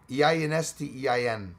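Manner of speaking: "E I N S T E I N" as run-together English letter names; sounded-out letters. Shown as a demonstration. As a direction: spell "E I N S T E I N" so it flows like a German-sounding sentence. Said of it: "I'm sounding out the letter".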